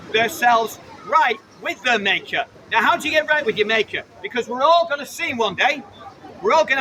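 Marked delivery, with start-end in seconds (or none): 0.1-2.5 slow preaching shout; fervent zealot intensity. Real, not acted. Street preaching to crowd.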